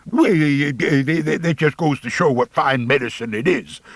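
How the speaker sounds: lightly voiced folksy old timer; easy backwoods yarn-spinner voice; old Rancid drawling.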